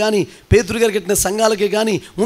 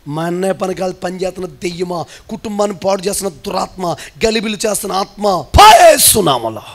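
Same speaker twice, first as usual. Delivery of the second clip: commanding rebuke. Shown as a demonstration. Preacher showing how to cast out a brother's demon, rebuking. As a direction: build to a stretched shout on the last phrase.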